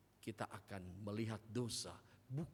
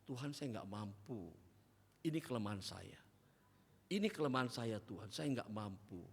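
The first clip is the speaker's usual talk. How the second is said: humble prayer. Acted. (doa lirih penuh kerendahan hati)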